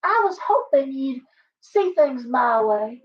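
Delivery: slow, sugary Southern belle drawl; a syrupy belle pleading sweetly. Retold or imitated. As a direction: coo it like a flirty Southern belle. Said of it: "like some Southern belle".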